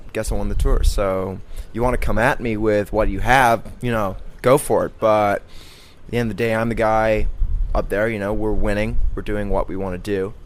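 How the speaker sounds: Armstrong's attacking version. Retold or imitated. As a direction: take the fight to them, swaggering. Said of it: "He's like".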